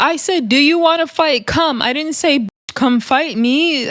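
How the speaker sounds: hammed-up quibbling; imitating a whiny excuse. The speaker insisting she never said come fight, high mock whine.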